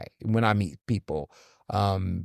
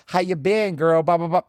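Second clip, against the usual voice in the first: mock fake friendliness; 4 semitones higher than usual. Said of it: "I'm not gonna be fake".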